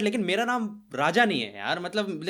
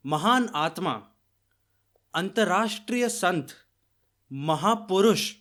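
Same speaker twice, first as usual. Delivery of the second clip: word by word, with long gaps; mock slow speech; slower than usual. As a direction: mimic a ponderous speaker, drawing out the titles. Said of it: "ऐसे इतना धीरे कौन बोलता है".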